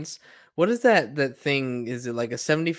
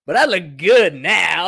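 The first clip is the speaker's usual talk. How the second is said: laughing; 8 dB louder, slower than usual. Real, not acted. Jokes about looking good.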